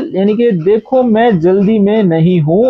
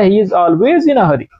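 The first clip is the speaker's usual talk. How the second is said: slow and clear; much slower than usual. Shown as a demonstration. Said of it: "slow English gloss".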